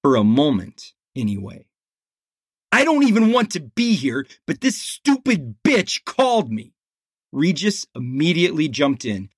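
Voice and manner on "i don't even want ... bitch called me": put-on high, fast whining teen; sulky teen. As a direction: complain like a surly kid. Teen complains about secretary.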